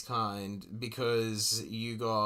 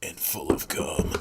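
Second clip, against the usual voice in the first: whispered punchline; a sly whispered dirty joke; 4 semitones lower, 3 dB louder than usual. Real, not acted. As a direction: breathe the crude line unvoiced. Crude joke.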